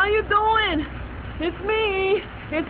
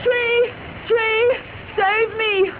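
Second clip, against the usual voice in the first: calling out; 5 semitones higher, much slower than usual. Acted. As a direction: cry out for help. Running to a tree, calling out.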